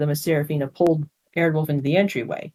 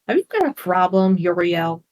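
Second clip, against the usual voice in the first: snapping. Acted. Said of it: "snapped Seraphina".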